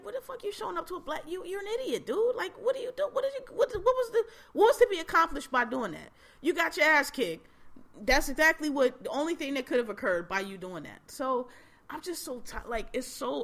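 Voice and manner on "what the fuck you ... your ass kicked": high-pitched, incredulous telling-off; exasperated retold scolding. Speaker imagines scolding someone who showed up to protest, exasperated. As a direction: chew out a foolish dude, voice climbing.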